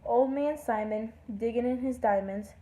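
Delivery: singsong verse in short phrases; lilting poem reading; poem recital. Acted. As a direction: read the poem aloud, each phrase falling at its end. Reads a poem aloud.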